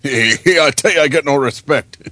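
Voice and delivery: Rodney Dangerfield impression. Shown as a demonstration. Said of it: "he does a beautiful Ronnie Dangerfield".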